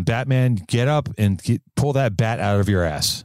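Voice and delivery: put-on a touch of a posh old butler; lightly voiced Alfred, mock wise; Alfred impression. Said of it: "like Alfred always says".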